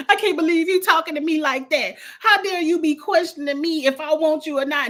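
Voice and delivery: hammed-up, indignant fake crying; mock tearful outrage. Mimicking Rob's outburst at Leah, mock tearful indignation. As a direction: imitate a wronged man putting on tears. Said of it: "starts crying".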